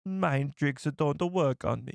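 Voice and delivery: slow, lightly put-on alien accent; mild mock Watto; Watto impression. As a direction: copy the clip slowly. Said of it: "It's almost like a Jamaican accent".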